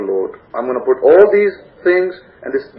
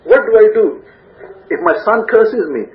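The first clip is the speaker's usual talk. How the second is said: mock frantic search; 5 semitones higher than usual. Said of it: "get onto Google and search".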